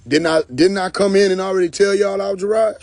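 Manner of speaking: high, loud, near-crying protest; mock outraged whine. Homeboy pleading his case to the bouncer, mock outraged. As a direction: whine like he's been wronged. Angry homeboy in club retelling.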